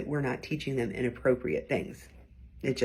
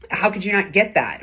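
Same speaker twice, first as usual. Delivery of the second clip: mildly louder sarcastic jab; a touch of scornful sarcasm; 3 semitones higher, 5 dB louder than usual. Shown as a demonstration. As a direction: let the disbelief drip with sarcasm. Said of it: "The sarcastic or ironic tone".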